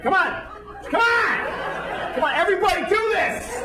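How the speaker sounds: rally the whole gate like a cheerleader; hyped leader. Pretend. Leading strangers at airport gate, high excited rally. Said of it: "It's like".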